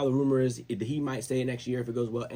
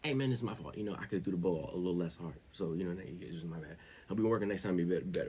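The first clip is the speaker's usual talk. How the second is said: lower, softer humble apology, lightly imitated; Mahomes; 4 semitones lower, 4 dB quieter than usual. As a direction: own up quietly, like at a podium. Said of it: "wanna know what he said?".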